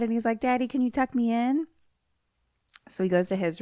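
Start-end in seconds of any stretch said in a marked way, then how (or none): 0.4-1.7 put-on high, childlike pleading; little kid voice. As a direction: imitate a boy asking Daddy sweetly. Voices child asking his dad.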